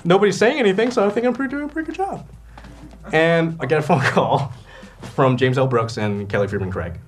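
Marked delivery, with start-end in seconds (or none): 0.0-2.3 high, climbing, anxious self-talk; mock self-reassurance. Actor imitates himself when nobody on set says anything, high self-reassurance. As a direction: talk yourself into it, pitched ever higher.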